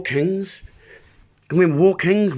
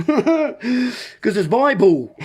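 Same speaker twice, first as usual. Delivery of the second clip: slow words broken up by laughter; laughing; 5 semitones higher, much slower than usual. Real, not acted. Laughing at his own joke about the Bible, drawn out. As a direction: laugh through the punchline.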